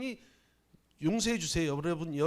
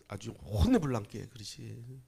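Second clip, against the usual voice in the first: Jeolla dialect; 7 semitones lower, 3 dB quieter than usual. Retold or imitated. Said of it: "전라도 사투리를 가끔 쓰는 거는".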